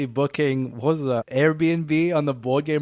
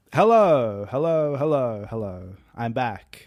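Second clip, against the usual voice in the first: husky, hoarse-sounding voice; 3 semitones lower than usual. A co-host back from trips abroad greets everyone on the show, husky voice. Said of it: "I detect a husk in your voice".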